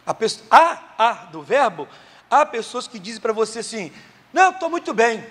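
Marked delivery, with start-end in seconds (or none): 4.3-5.2 fake cheerful. Quoting someone pretending fine.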